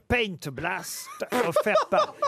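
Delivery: upbeat radio ad voice; ad read. Acted. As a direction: sell the prize like a jingle. Reads the sponsor ad.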